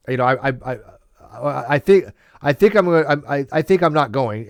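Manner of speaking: stammering, unsure half-refusal; hesitant hedge. Shown as a demonstration. Hedging to Steve about the party, stammering and unsure. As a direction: trip over the I's before committing. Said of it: "as opposed to".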